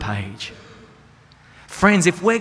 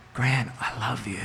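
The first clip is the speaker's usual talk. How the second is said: hushed, much softer, lowered pitch; soft whisper of God; 4 semitones lower, 8 dB quieter than usual. Retold or imitated. Preacher quoting God's whisper to him, hushed and soft. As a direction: breathe it gently like a voice in the soul. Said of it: "his Holy Spirit whispering to me".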